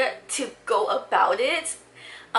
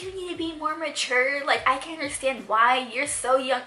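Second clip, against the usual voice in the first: mock scolding; 4 semitones higher than usual. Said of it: "yelling at my younger sister".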